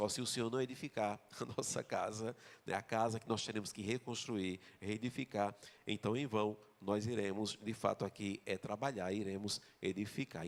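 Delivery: tragic lament. Acted. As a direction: voice it as a mild lament of returning exiles. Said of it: "já ganhou uma entonação mais trágica". (lamento trágico contido, cada vez mais baixo)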